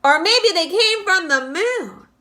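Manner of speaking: high, loud excited shout. A narrator's reading. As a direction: yell it up at the sky in wonder. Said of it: "they shouted".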